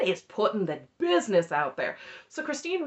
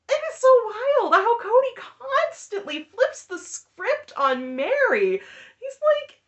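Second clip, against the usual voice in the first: high-pitched laughing recap, voice cracking with laughter; can barely get the words out for laughing; laughing through it; 4 dB louder than usual. Real, not acted. Telling viewers about the episode, cracking up laughing. Retelling funny moment, laughing hard.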